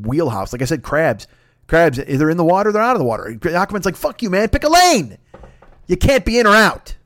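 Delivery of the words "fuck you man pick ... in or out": high, loud indignant outburst; Aquaman, uptight. Acted. Superhero telling crabs to pick, uptight yelling. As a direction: snap at the crabs, rising to a yell. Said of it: "Aquaman's an uptight dude".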